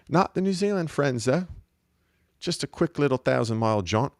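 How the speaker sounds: put-on friendly Kiwi accent, lilting up; mock New Zealand accent with rising ends. Host praising the nicer neighbours, in a put-on New Zealand accent. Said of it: "Gonna speak with a New Zealand accent".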